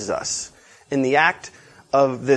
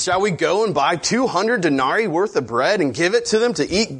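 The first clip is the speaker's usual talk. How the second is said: higher, mildly mock-sarcastic question; sarcastic teenager; 4 semitones higher than usual. Disciples answer Jesus, mildly sarcastic teenager. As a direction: put on a touch of teenage sarcasm, pitched up. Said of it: "answered like a sarcastic teenager".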